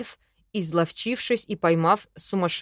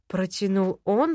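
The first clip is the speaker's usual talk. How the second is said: ordinary delivery, nothing marked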